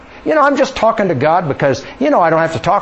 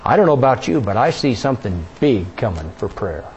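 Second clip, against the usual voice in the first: ordinary talk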